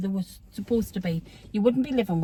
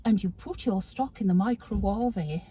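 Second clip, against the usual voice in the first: Nigella Lawson impression; 2 semitones lower than usual. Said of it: "is it Nigella Lawson, the, the cook".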